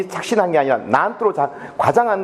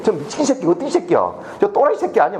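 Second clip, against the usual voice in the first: retold cursing; 2 semitones higher than usual. Rescuer hauling him up curses at him, retold cursing. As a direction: imitate someone cussing out a fool. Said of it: "나한테 막 욕을 하는 거예요".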